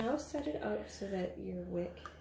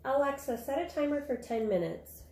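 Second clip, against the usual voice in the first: clear, raised command to a smart speaker; talking to voice assistant; 5 semitones higher than usual. Real, not acted. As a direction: speak up so Alexa hears. Mom giving voice command to Alexa.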